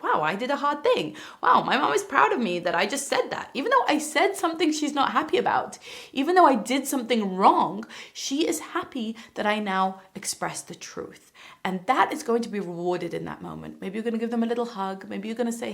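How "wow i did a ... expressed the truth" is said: put-on proud child.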